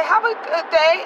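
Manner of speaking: high, slow, sugary goodbye; sweet farewell. Retold or imitated. Driver wishing toll man well, high and slow. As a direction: send him off extra nicely. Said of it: "And I would say".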